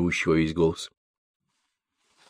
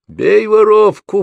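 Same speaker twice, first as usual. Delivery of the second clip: high shouting jeer, slow; crowd yell; 14 semitones higher, 9 dB louder, much slower than usual. A narrator's reading. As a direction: egg the beaters on. Crowd eggs on beating. (толпа подзадоривает криком)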